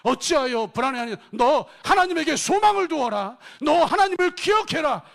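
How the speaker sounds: loud, high commanding proclamation; proclaiming to oneself. Acted. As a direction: order your own soul to hope. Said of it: "스스로에게 말하는 것을 실천했습니다".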